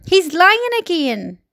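high, drawn-out accusation; indignant shriek. A narrator's reading. Earthworm accusing the centipede, shrieking in protest. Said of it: "shrieked the earthworm".

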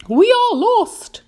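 high, slow, loud wail; crying out. A narrator's reading. Ladybird despairs as the peach falls, drawn-out cry. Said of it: "cried the ladybird".

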